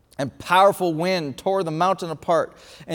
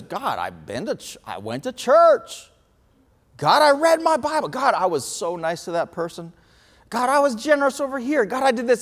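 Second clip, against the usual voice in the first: higher, whiny listing of good deeds to God; mock self-justifying prayer; 5 semitones higher than usual. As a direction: sell every good deed like a kid pleading for a prize. Mocking our self-justifying prayers.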